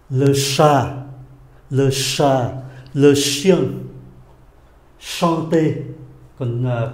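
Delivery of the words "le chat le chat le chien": "Le chat, le chien" with a heavily curled sh; strongly curled tongue. Shown as a demonstration. Teacher demonstrates the sound numbered ten, strongly curled tongue. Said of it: "nó uốn lưỡi rất".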